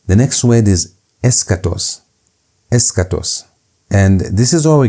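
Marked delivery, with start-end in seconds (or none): 1.2-2.0 eschatos read out carefully; model reading. Shown as a demonstration. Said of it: "Pay attention to how I'm reading". 2.7-3.4 Eschatos repeated carefully on its own; model reading. Shown as a demonstration. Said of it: "Pay attention to how I'm reading".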